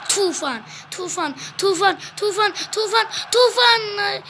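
football play-by-play. Acted. Plays a match while commentating.

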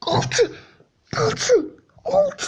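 building giddy disbelief; rising excitement. Real, not acted. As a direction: climb from hope to delight.

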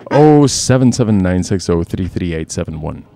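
sleazy creep voice reading a number; hammed-up creepy pickup line. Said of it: "I put my creep voice on".

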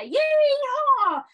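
high, loud cowboy whoop; yeehaw whoop. Acted. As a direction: whoop it out in triumph. Triumphant cry in poem.

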